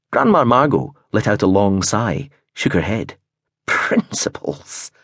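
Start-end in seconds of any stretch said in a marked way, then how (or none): 3.7-4.9 slow, unvoiced breathy word; breathed. A narrator's reading. Gran exasperated with Prentice, breathed slowly. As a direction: sigh the word out. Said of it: "she breathed".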